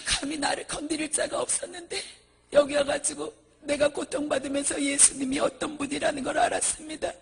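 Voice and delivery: high-pitched, crying acted plea; tearful repentance. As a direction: beg forgiveness through gasping sobs. Monk acted begging Jesus for forgiveness.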